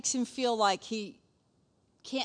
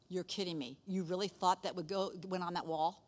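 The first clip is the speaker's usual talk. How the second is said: quiet, scornful put-down; rude dismissive; 4 semitones lower, 7 dB quieter than usual. Retold or imitated. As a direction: dismiss his choice rudely. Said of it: "saying it like that. That's really rude".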